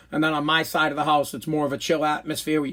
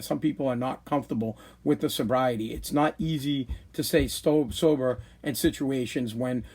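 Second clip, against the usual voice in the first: halting read-aloud; 3 semitones lower, 5 dB quieter than usual. Real, not acted. Host reading Brad's message mid-talk, halting and softer. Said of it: "tough for me to read while I talk".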